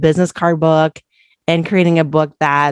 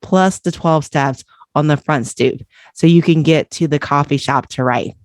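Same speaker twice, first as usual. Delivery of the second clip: measured, deliberate read-aloud with pauses; book excerpt reading. Acted. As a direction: read it out like an audiobook passage.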